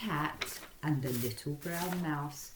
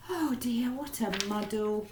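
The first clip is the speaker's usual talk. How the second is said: gasp; 6 semitones higher than usual. Acted. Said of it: "the old lady gasped".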